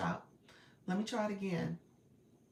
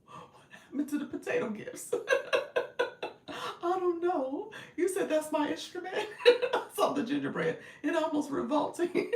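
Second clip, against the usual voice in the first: much higher, sped-up chipmunk filter; squeaky chipmunk effect voice; 11 semitones higher than usual. Real, not acted. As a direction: talk through the chipmunk app filter. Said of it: "You said do the chipmunk".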